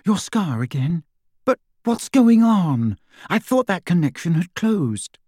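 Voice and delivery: high, alarmed and pleading; frightened. A narrator's reading. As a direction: voice rising in fright. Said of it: "said in a frightened voice".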